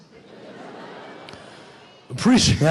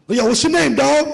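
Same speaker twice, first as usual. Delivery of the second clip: higher, cool friend greeting; hyped-up street greeting; 6 semitones higher than usual. Retold or imitated. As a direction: call out like a buddy on the block. Black friend greets him.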